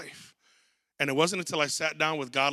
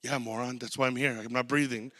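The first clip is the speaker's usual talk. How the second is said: low, dry mock put-down, softer; sarcastic retort; 6 semitones lower, 7 dB quieter than usual. Retelling talking back to the ER doctor, dry sarcasm. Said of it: "I go".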